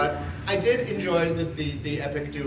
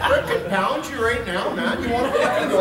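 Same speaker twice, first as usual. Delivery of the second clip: put-on a bit louder, laughing Northern Alberta drunk picking a fight; rowdy Northern Alberta accent; 5 semitones higher, 4 dB louder than usual. Telling fans how Albertans talk after rye, rowdy Canadian accent. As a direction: play the tipsy Alberta guy squaring up for a fight, in a Canadian accent. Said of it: "That's how they talk".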